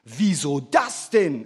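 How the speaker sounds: slow, drawn-out indignant question; mildly outraged, half-hearted. A narrator's reading. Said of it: "empörte sich der Einsiedler". (leicht empörtes Nachfragen)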